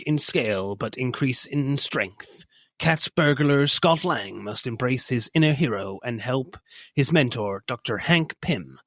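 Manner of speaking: epic movie trailer narrator. Acted. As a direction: read it like a dramatic trailer. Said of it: "my trailer voice there".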